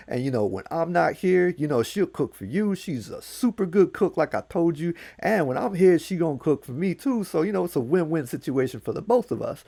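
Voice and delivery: lightly voiced scheming trickster; Anansi pitching. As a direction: sell the daughter as a gift. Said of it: "Anansi just said".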